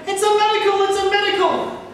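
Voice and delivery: high, loud joyful cry of a crowd; crowd shouting. Acted. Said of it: "folk were shouting".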